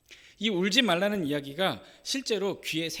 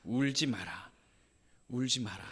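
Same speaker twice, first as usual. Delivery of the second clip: tender comfort; 4 semitones lower, 4 dB quieter than usual. Acted. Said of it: "예수님은 그녀를 향해서 이렇게 말씀하시죠".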